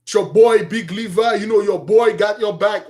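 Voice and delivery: put-on casual swagger, calling yourself boy; a man hyping himself to his friends; mock boastful greeting. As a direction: show the habit he condemns. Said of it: "No more, man".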